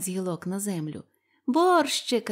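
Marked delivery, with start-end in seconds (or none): 1.5-2.3 joyful cry. A narrator's reading. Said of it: "радіють".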